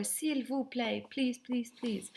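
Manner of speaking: a touch of sing-song begging, slowly on the French; super polite. Acted. Teacher showing students how polite French is, super polite pleading. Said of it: "being super polite and saying".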